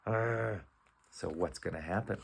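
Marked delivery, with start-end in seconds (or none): 0.1-0.6 soft grumbling "arr"; drawn-out unhappy cat grumble; displeased growl. Acted. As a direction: growl quietly like a disgruntled cat. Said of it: "this cat doesn't like it".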